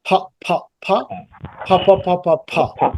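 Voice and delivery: "pha" singly, then in a run; teacher sounding out P as "pha"; aspirated P drill. Shown as a demonstration. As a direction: puff air on the P of each "pha". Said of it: "বাতাস বের হচ্ছে".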